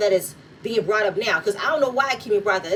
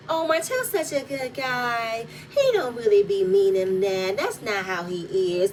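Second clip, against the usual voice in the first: lightly mocking a naive fan, slow; slow sing-song imitation of a gullible viewer; mocking quote. Vlogger mocking viewers who defended Martell, slow sing-song. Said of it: "the stupid shit you said".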